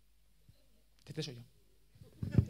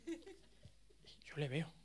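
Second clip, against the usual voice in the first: slow, breathy whispered reveal; suspenseful whisper; 14 dB quieter, much slower than usual. Acted. Storyteller whispers to the audience, slow suspenseful whisper.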